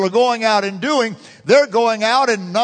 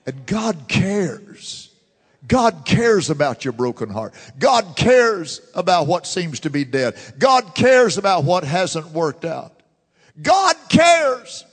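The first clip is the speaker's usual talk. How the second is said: building refrain. Real, not acted. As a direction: build the refrain until it rings out. Building refrain God cares.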